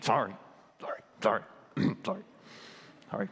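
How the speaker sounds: a milder, grudging sorry. Retold or imitated. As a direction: tone the scorn down a little. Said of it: "with a little less disdain".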